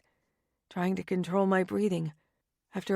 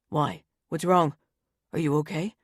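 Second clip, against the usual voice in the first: worried; 4 semitones lower than usual. Acted. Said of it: "he asks worriedly".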